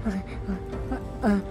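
ordinary talk

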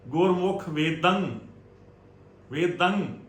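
ਵੇਦੰ with tongue drawn back into the nasal; tongue pulled back. Shown as a demonstration. Teacher showing pure pronunciation, ਵੇਦੰ ending with tongue drawn back. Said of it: "ਜ਼ੁਬਾਨ ਫਿਰ ਆਪਣੇ ਪਿੱਛੇ ਨੂੰ ਖਿੱਚੀ ਜਾਂਦੀ".

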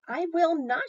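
high, loud indignant refusal. A narrator's reading. Amelia Bedelia digging her heels in, indignant. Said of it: "Amelia Bedelia stamped her foot".

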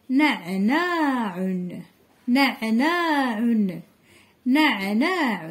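نعناع slow, with a clear throaty ع; slow word reading. Shown as a demonstration. Teacher modelling نعناع slowly for small children. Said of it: "كلمة فيها حرف العين".

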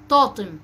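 طاطم with a T in place of the qaf; child's misarticulation. Shown as a demonstration. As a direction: demonstrate the lisped طاطم. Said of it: "كلمة زي طاقم بينطقها". (نطق ألدغ، الطاء بدل القاف)

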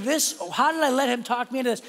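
high, fast laughing complaint; mock-exasperated thought, laughing; laughing disbelief. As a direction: laugh at your own bad choice.

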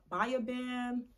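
"Baya" said like BUY-uh; "Baya" with an eye vowel first; tentative pronunciation. Shown as a demonstration. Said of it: "not even sure if that's the correct pronunciation".

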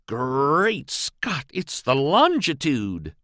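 slow, breathless shock at the discovery; gasping alarm. A narrator's reading. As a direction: gasp it out as the truth dawns. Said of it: "his breath to come out kinder gaspy-like".

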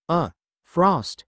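hoarse croak. A narrator's reading. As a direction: croak it out weakly. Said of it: "he croaked out".

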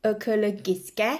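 ekologiske drawn out very slowly in Norwegian sounds; slow Norwegian demo. Shown as a demonstration. Teacher slowly modelling ekologiske for viewers. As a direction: stretch out ekologiske for learners. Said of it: "ก็คือ producere".

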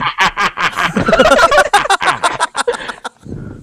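high cackling villain laugh. Real, not acted. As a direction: mustache twirling villain cackle. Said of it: "악당 웃음소리를 잘 내지". (악당 웃음소리)

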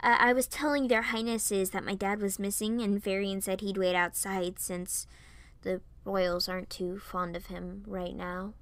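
hesitant, flustered explaining; mildly flustered; sputtering explanation. Acted. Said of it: "I sputtered".

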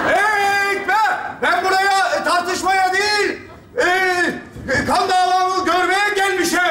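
a light Eastern Anatolian twang on gelmişim; put-on regional accent. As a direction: slip into a mild Eastern accent. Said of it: "şive yaptı". (hafif Doğu şivesiyle)

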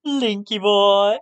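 put-on Linky boy slow, with a flamboyant lilt. Shown as a demonstration. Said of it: "You gotta add the flamboyance into there".

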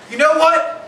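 a touch of an angry mother; pissed-off mom. Retold or imitated. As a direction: stand up and snap back at them. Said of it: "My mom gets pissed".

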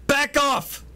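sharp high warning to back off; yelling back off. Acted.

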